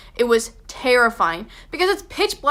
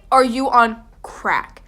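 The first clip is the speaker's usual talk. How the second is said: slow, louder disbelief falling flat at the end; firm incredulous; 3 dB louder, slower than usual. Retold or imitated. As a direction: say it as a final verdict. Repeats the question, firmer.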